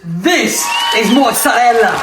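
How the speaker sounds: slow proud shouted reveal; triumphant shout. Acted. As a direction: announce it like a proud chef. Triumphant reveal of stretched cheese.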